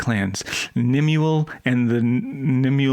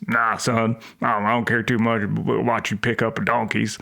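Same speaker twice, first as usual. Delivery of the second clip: put-on Southern dad accent; 2 semitones lower than usual. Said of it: "a real Southern dad".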